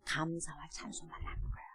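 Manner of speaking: hushed whispered answer. Acted. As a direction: whisper it like a secret. Whispered conclusion. (속삭이듯)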